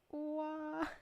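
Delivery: high, loud, tearful excitement; overwhelmed. Real, not acted. Streamer overwhelmed by a viewer's offer, loud and squealing. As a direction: gush and squeal in disbelief.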